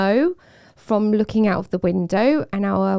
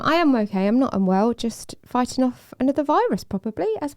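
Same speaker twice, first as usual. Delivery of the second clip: nasal voice; 5 semitones higher than usual. Real, not acted. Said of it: "I sound a bit nasally".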